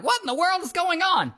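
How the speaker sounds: high-pitched mock alarm; retold astonishment, voice shooting up; imitating bewildered receptionist. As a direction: act out someone startled by a commotion. Receptionist reacts to hallway commotion.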